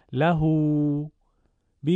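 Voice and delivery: «له» as lahuu, «به» as bihii; slight lengthening. Shown as a demonstration. Teacher showing what ishba is, final vowels lengthened. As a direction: hold the final vowels of «له» and «به» a little.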